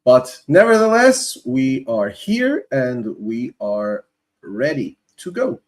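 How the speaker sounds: pushing a hoarse voice; hoarse cry. Real, not acted. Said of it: "my voice is a little bit gone".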